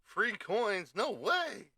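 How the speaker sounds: high, loud fake surprise; a streamer joking about free coins, with hammed-up glee; mock excitement. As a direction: ham up a gleeful gasp.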